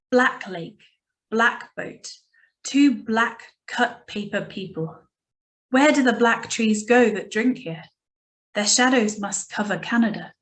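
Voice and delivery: poem recital without theatrics; first poem reading. Shown as a demonstration. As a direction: read the poem simply and unhurriedly, for understanding. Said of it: "this is just gonna be my first reading".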